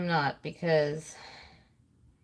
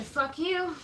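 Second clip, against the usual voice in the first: parakeet voice; 8 semitones higher, 3 dB quieter than usual. Pretend. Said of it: "They said".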